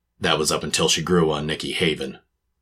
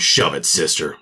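gruff snap, louder; angry; 3 dB louder than usual. Acted. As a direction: shut her down hard. Angry brush-off.

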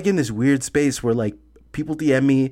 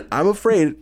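laughing; 6 semitones higher than usual. Real, not acted. Teasing friend about ghosts.

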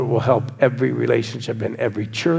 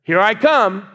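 imitating kid; 7 semitones higher, slower than usual. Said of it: "what he said to me".

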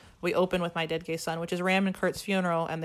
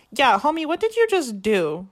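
high, loud shocked yell; aghast shout; 6 semitones higher, 7 dB louder than usual. Retold or imitated. Veronica sees J D kill Kurt, horrified yell. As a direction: shout in horror at what he did. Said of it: "then Veronica's like".

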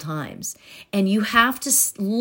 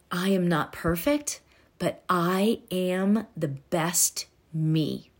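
soft affirmation; 2 semitones lower, 5 dB quieter, slower than usual. Shown as a demonstration. Slow soft affirmation demo.

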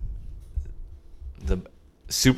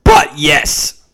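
voice cracking; 9 dB louder than usual. Real, not acted. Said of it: "did my voice just crack".

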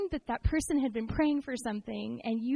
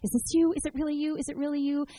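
pleading prayer; 4 semitones higher than usual. Retold or imitated. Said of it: "I'm just praying".

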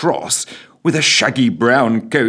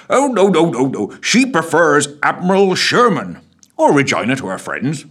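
high jolly voice, full of mirth; tickled pink; merry constable; 7 semitones higher, 4 dB louder than usual. A narrator's reading. Constable correcting the PM, full of mirth. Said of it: "quite beside himself with mirth".

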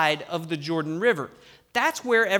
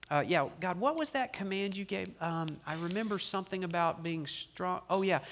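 sheepish forgetful Joshua; 8 dB quieter than usual. Pretend. Preacher plays forgetful Joshua.

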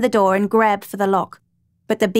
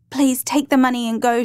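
pleading; 3 semitones higher than usual. Acted. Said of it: "she pleaded".

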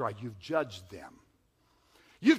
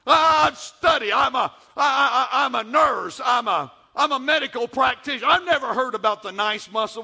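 mock skeptic; 4 semitones higher, 5 dB louder than usual. Imagined skeptical nurse objecting.

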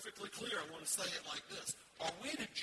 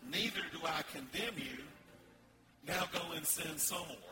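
mock permissive Jesus; 3 semitones lower than usual. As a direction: parody the easy-going Jesus people want. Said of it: "They want a Jesus that says".

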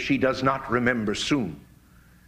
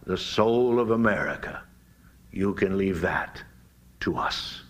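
mock reassurance; 6 semitones lower than usual. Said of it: "they smile reassuringly".

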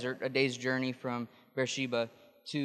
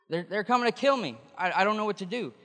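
higher, frantic mock panic; panicked whining; 7 semitones higher, faster than usual. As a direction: whine it out like a cornered, scared man. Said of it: "from whining and crying about a spider".

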